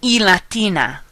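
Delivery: E latina said as Spanish "ee la-TEE-na"; Spanish letter name. Shown as a demonstration. Teacher showing the Spanish name of letter I, pronounced carefully. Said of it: "also pronounce the letter of this alphabet".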